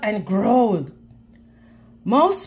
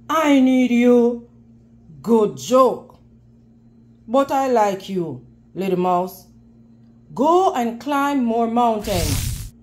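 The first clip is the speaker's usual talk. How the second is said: lion voice; 2 semitones lower than usual. Acted. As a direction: speak as a lazy king lion. Lion voice in story.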